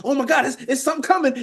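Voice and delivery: high, stammering hammed-up excitement; theatrical mock awe. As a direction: put on a show of something arriving. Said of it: "You need the theatrics".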